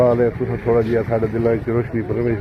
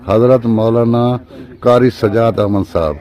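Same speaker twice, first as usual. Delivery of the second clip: title called out louder; louder, announcing the honoured guest; loud introduction; 5 dB louder than usual. Acted. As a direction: announce his name with proud emphasis. Presenter introduces the scholar.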